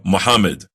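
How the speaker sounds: Muhammad quick, no held mm; Muhammad rushed and flat; wrong pronunciation. Shown as a demonstration.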